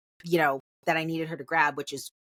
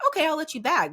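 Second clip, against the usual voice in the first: mock sweet cashier; 10 semitones higher, faster than usual. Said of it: "Usually they're like".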